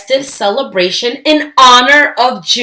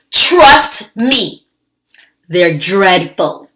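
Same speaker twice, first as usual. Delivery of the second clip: warning; 4 dB louder, slower than usual. Acted. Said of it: "she said".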